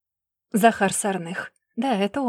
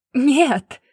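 loud high roaring no; 5 semitones higher, 7 dB louder than usual. Acted. Laila roaring at her brother, full loud roar. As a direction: bellow it at full force. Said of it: "взревела Лайла".

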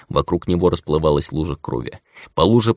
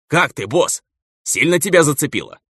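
much higher, anxious thug voice; worried overexcited; 9 semitones higher than usual. Acted. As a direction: fret at the boss, wound up. Same excited henchman on the call. (встревоженный возбуждённый голос)

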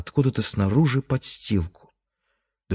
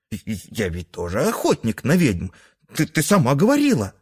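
put-on stammering child voice; 3 semitones higher than usual. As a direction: push the words out fast like a kid. Son insists on coming.

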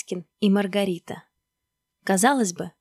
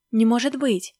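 louder, agitated disbelief; 3 semitones higher, 5 dB louder than usual. Acted. Maskin learns Stalin is calling, agitated. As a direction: blurt it out in alarm. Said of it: "заволновался Маськин".

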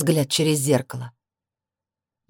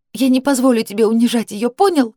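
high angry shout; 6 semitones higher, 4 dB louder than usual. A narrator's reading. Sister shouts threat.

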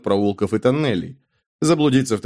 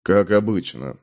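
lower, terse confirmation; low gruff man; 4 semitones lower than usual. Acted. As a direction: answer short and weary. Hero answers innkeeper, low. (низкий сдержанный мужской голос)

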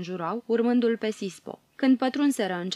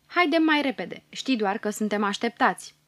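hurried dwarf; 2 semitones higher than usual. Acted. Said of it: "zicându-i".

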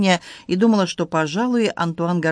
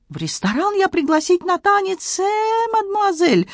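excited Frenchman in broken Russian, high; Antoine voice; 13 semitones higher than usual. Acted. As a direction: play the flustered Frenchman, pitched high. Antoine speaks.

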